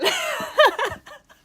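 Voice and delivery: high, loud burst of laughter. Real, not acted. Laughing at own crying.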